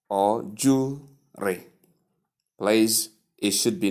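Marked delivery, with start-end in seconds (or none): 0.5-1.7 "jewelry" squeezed to JOO-ree, no L; wrong pronunciation. Shown as a demonstration. Teacher shows how some people say it, mispronunciation without the L. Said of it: "and not".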